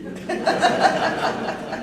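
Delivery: high breathless laugh before the question; giddy laughing burst; burst of laughter. Acted. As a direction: laugh out loud in delight. Laughs during the proposal.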